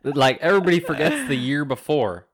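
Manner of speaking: light put-on Southern accent, ranting; a hint of a Southern accent for a mock rant. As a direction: play a Southern conspiracy ranter in a mild Southern accent. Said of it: "talking in a Southern accent".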